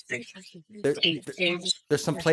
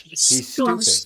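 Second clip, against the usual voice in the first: slow eerie echo; much slower than usual. Retold or imitated. Replaying the spirit voice heard.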